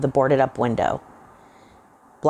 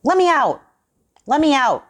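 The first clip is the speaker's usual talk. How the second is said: much higher, louder panicked yelling; desperate shout; 12 semitones higher, 5 dB louder than usual. A narrator's reading. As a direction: pound the door and scream. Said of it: "shouted Johnson".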